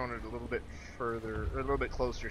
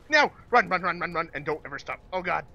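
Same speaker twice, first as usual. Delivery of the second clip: louder, frantic panicked urging; being chased; 4 semitones higher, 8 dB louder than usual. Real, not acted. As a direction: run for your life, yelling. Fleeing the monster.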